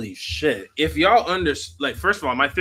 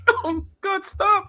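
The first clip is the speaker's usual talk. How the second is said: laughing; 3 dB louder, much slower than usual. Real, not acted. Reacting to shocking lyric.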